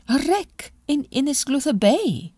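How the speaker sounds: high excited exclamation; exclaiming. A narrator's reading. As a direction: cry it out in surprise. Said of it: "exclaimed Lulu".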